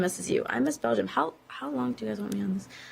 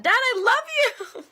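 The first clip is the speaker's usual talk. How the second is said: calling out; 6 dB louder, slower than usual. Real, not acted. Calling out to her dad.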